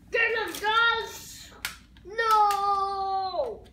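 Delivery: play-battle shout. Pretend. Acted Star Wars battle play.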